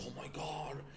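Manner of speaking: hammed-up disbelief of gushing friends; imitating impressed admirers. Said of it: "things that people praise me".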